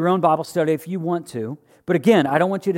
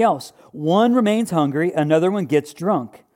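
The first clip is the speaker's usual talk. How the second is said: raised, emphatic reading of Paul's letter; scripture reading; 2 semitones higher than usual. Acted. Preacher reading Paul's rebuke to the church, emphatic. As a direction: read it out like a stern apostle.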